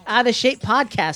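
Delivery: panting after running around; breathless, gasping intro; out of breath. Real, not acted. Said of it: "I was running around the living room".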